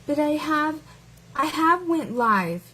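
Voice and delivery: mocking the commenter. Mocking the commenter's grammar to her viewers. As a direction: parrot the bad grammar back, lightly mocking. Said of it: "I've only heard hillbillies speak like that".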